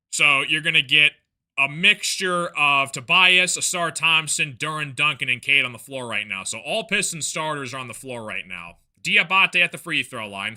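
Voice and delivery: brisk basketball call, rising on the action; live play-by-play. Real, not acted. Broadcaster calling the Pistons game for viewers, brisk play-by-play. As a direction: keep the play moving like a TV caller.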